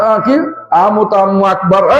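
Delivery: slow mock groggy mumble of prayer words; imitated dozing worshipper. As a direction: imitate someone jolted from a doze at prayer. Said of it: "লাফ দিয়ে উঠছে". (ঘুম থেকে লাফিয়ে ওঠা মুসল্লির নকল)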